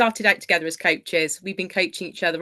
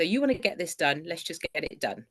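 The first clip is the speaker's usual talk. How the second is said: encouraging, matter-of-fact self-talk, trailing softer; proactive voice; 5 dB quieter than usual. Shown as a demonstration. Client demonstrating her proactive voice to the coach, proactive. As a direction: coach yourself into getting it done. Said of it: "what I call a proactive voice".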